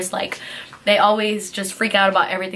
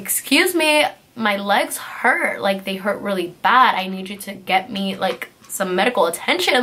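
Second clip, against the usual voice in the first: begging. Retold or imitated. Sixteen-year-old in the cop car begging the officer for help, pleading. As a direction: beg for help, voice pitched up. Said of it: "I was begging him".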